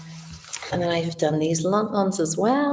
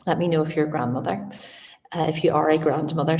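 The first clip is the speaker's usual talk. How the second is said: talking through a retainer; lisping with a dental retainer; slushy sh for s; faster than usual. Real, not acted. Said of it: "sorry, my retainer makes my speak a bit differently".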